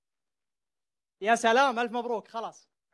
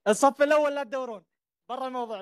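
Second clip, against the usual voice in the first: loud, higher call to the front row; 4 semitones higher, 4 dB louder than usual. Real, not acted. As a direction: shout across the hall. (ينادي بصوت عالٍ)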